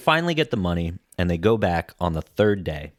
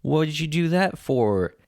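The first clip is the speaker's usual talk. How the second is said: lightly voiced upset kid, higher pitch; a hint of a pleading little boy, pitched up; imitating Lil Skippy; 6 semitones higher than usual. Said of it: "Lil Skippy starts giving his little speech".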